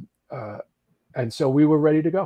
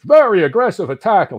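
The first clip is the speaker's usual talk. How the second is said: seminar quote; 6 semitones higher, 9 dB louder than usual. Retold or imitated. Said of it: "He goes".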